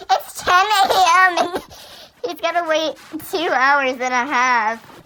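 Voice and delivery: real laugh through an incredulous aside. Real, not acted. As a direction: blurt it out, laughing in disbelief. Reader scoffs at the appointment time.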